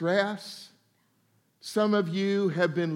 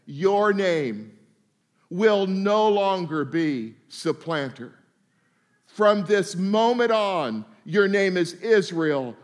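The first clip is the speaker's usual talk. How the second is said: voice of God; slower than usual. Retold or imitated. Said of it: "he said".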